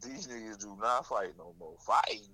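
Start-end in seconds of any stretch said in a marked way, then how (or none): 1.8-2.2 very high silly squeak; squeaky mock voice. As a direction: play it as a squeaky joke.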